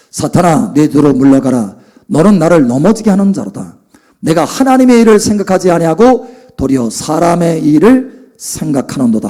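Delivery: firm, low-pitched scriptural rebuke; acted-out stern judgement; razor-sharp rebuke. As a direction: rebuke with cutting authority, no hesitation. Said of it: "아주 칼같이 분별합니다".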